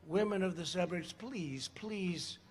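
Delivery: very soft mock pleading; joking plea. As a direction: beg quietly, tongue in cheek.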